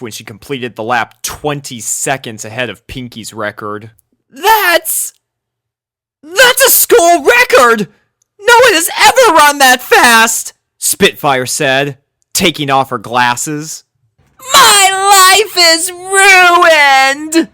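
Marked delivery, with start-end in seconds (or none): 4.3-10.5 very high, loud astonished cry; stunned coach. A narrator's reading. Spitfire announces the record, very high and loud with amazement. 14.5-17.5 very slow, high, loud crying wail; dramatic wail. A narrator's reading. Dash wails over losing her record, hammed-up crying. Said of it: "Dash wailed dramatically".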